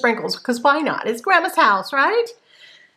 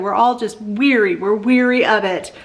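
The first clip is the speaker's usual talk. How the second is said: usual speaking voice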